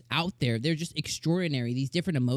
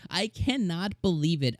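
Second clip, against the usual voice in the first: laughing disbelief; 3 semitones higher than usual. Real, not acted. Overwhelmed reaction, laughing.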